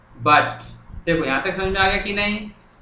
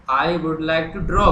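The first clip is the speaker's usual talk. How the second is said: very slow, word by word; slow dictation; much slower than usual. Shown as a demonstration. Teacher writing the letter on the board, slow dictation. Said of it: "अब मैं लिखना शुरू कर रहा हूँ".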